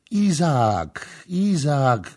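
high, loud cries of the name; shouting. A narrator's reading. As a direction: cry it out twice, each falling away. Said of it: "krzyczała Kama".

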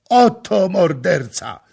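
high, slow, loud scream; shrieking accusation. A narrator's reading. Governor screaming at the intruder, shrieking. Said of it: "wrzasnął nomarcha".

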